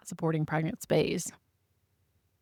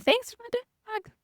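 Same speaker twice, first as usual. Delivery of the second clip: mock thanks; slower than usual. Mock thanks after getting dog.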